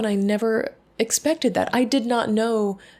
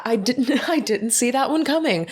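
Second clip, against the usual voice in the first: real laugh breaking into the words, higher pitch; 4 semitones higher than usual. Real, not acted. Admitting to a listener she was caught off guard, laughing. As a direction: start over, then laugh through it. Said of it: "And I'm laughing".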